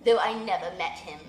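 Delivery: stately owl advising the widow; wise old owl. Acted. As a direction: speak as the solemn old owl giving counsel.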